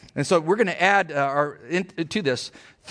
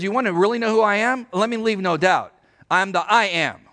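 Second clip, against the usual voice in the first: higher and louder, leaving no doubt; raised, insistent "I'm the I am"; emphatic declaration; 5 semitones higher, 4 dB louder than usual. Retold or imitated. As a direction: proclaim it as Jesus, firm and emphatic. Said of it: "you just made it emphatic".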